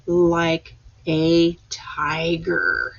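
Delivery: whispered slowly, word by word. Shown as a demonstration. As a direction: hush it like sneaking up on a tiger. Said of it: "every time you say a word".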